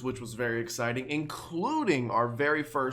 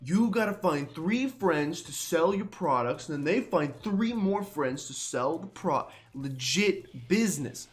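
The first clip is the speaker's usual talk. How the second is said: tough grunt voice. Pretend. Voicing Team Skull grunt.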